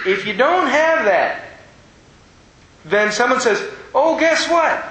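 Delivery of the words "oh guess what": high-pitched burst of eager news; excited. Acted. Someone breaking news to others, excited. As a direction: blurt it out, all worked up. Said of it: "they get all excited like".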